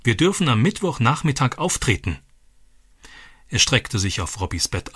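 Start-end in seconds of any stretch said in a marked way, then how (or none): 0.0-2.2 calling out. Acted.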